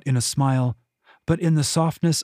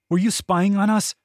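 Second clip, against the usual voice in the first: angry accusation; 6 semitones higher than usual. A narrator's reading. Kyla confronts Rajan angrily.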